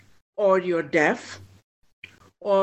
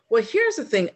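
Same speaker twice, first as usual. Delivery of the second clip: normal talking voice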